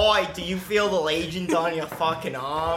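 lively hammed-up Aussie; mock Australian accent. Player clowning as an Australian, mock Aussie accent. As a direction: put on a broad Australian accent.

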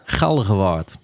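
plat Utrechts pronunciation of Galgenwaard; broad Utrecht accent. Shown as a demonstration. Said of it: "Hoe spreek je dat op zijn plat Utrechts uit?".

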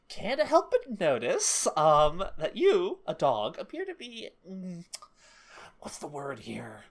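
slow, drawn-out stunned disbelief; haltingly, like you can't believe it; amazed disbelief. Retold or imitated. Retelling a shocked owner to a dog.

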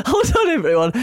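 high voice through laughter; laughter-filled announcement; laughing. Real, not acted. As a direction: call a halt while still laughing. Still laughing, halts the chat.

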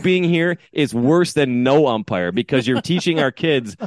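re-enacted indignant lecture; shaming the umpire. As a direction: pile on the blame, stretching key words. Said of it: "and shaming him".

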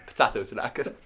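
American accent. Shown as a demonstration. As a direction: say Potato Tanaka in a broad American accent. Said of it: "but in an American accent".

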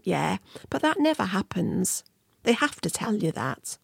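dismissive thought. Retold or imitated. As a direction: brush the worry aside, softly, as if thinking. Voicing her own dismissive thought.

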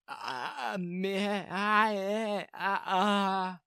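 tongue-tied "uh... meh... uh"; stammered muttering. A narrator's reading. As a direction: sputter helplessly, unable to get a word out. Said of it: "I simply muttered".

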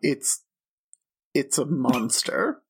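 whispered, slowed reveal; host whispering a warning through the door; ominous whisper. Acted. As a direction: hush it like a secret threat.

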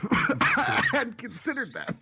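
wheezy rasping laugh; raspy cough. Real, not acted. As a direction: rasp through a laugh. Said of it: "coughing and wheezing".

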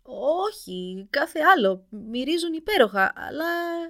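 high, whimpering timid voice; timid prince. A narrator's reading. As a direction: nervously excuse himself to the giant. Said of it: "είπε δειλά ο πρίγκιπας". (δειλή τρεμάμενη φωνή)

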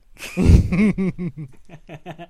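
weak, half-hearted villain cackle; a feeble try at an evil cackle; lame evil laugh. Pretend. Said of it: "That was lame".

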